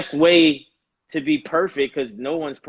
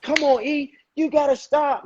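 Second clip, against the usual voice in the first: higher, pushing father voice scolding his son; stern father voice; 11 semitones higher than usual. Retold or imitated. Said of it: "I'm the kid and I'm the father".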